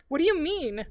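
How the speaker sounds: loud, high, demanding; sudden high near-shout; almost a shout. A narrator's reading. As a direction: burst out at her mother. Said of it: "her voice almost a shout".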